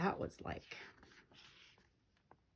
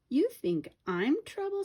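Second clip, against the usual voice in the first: high, louder indignant retort; a little girl offended and daring; indignant child; 11 semitones higher, 6 dB louder than usual. A narrator's reading. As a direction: bristle at the insult.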